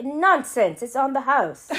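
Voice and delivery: hammed-up, badly done British accent. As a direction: wave it away in a shaky-attempt British accent. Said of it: "I can't do the accent".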